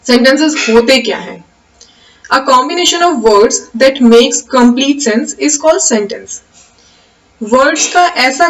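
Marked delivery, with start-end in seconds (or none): 2.3-6.4 slow, measured reading of a definition; slow dictation. Acted. Teacher dictating the definition slowly to the class. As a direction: read it out slowly so students can write.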